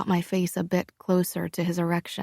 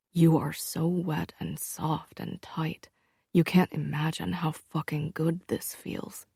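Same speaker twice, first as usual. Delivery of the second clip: lightly voiced intimate man's voice; lightly voiced lover; 4 dB quieter than usual. Luca voiced in story.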